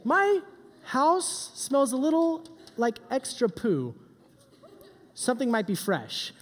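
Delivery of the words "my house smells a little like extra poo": mock puzzled parent. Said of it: "when you're like".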